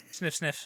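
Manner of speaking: playful sniffing at the screen; sniffing the air. Pretend. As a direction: sniff sniff like a curious pet. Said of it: "I'm gonna take a big sniff".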